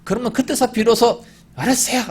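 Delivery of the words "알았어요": annoyed okay. Retold or imitated. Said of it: "귀찮다는 듯이".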